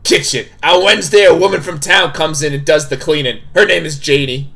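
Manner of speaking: put-on game character voice, stern hostess; firm, projected character voice; Tabitha. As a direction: play a bossy hostess laying down house rules. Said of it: "I gotta do my Tabitha voice".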